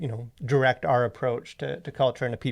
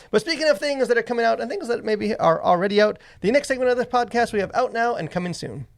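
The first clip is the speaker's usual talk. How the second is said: higher-pitched podcast segment intro; segment announcer; 10 semitones higher than usual. Acted. Host introducing the next podcast segment, announcer style.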